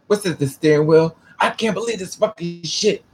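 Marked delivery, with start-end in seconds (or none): 1.4-3.0 retold going-off rant. Retelling the white guy's rant at the steering wheel, mock fury. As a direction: imitate him going off without shouting. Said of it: "I mean, he's going off".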